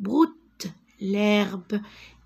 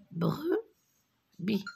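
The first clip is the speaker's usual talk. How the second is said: whisper; 5 dB quieter than usual. Shown as a demonstration. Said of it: "je frappe les syllabes".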